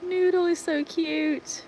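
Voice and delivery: high, drawn-out cooing; high-pitched, lingering adoration; adoring coo. Real, not acted. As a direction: coo slowly over something cute. Cooing over a dog's name.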